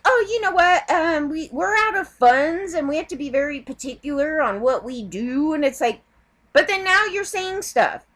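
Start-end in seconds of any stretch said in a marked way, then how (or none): 0.0-5.5 pitched-up fake polite excuse; mocking excuse voice. Vlogger mocks a charity claiming it is out of funds, pitched up. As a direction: play the smug charity brushing her off. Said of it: "And they're like".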